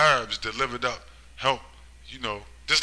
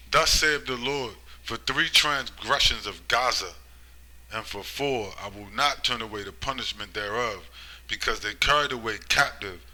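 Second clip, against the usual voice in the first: scripture reading. Acted. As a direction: proclaim the verse like a prophet. Reads Amos aloud.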